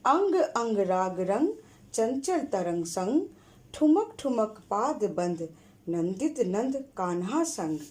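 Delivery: rhythmic chanted poem reading; poem recital. Shown as a demonstration. Teacher reciting a rhyme for the class. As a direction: recite it with a sing-song beat. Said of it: "वो मैं पढ़ रही हूँ।".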